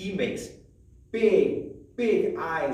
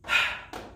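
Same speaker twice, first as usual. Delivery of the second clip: breathy h sound. Shown as a demonstration. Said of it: "The letter H says".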